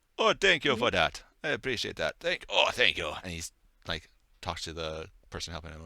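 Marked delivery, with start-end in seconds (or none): 0.2-3.1 put-on loud older gentleman character voice. Narrating a scene to the group as an older gentleman steps out, older gentleman voice. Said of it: "older gentleman step out".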